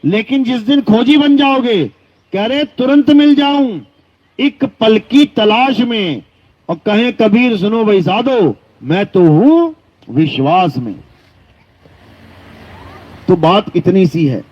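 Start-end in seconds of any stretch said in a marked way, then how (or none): 2.6-10.9 measured scriptural recital; verse recitation. Acted. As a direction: recite the couplet with stretched line endings. Recites Kabir's closing verse.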